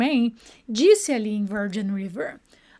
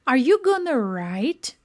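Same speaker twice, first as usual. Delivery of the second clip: slow demo; slower than usual. Shown as a demonstration. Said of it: "Ela vai falar assim".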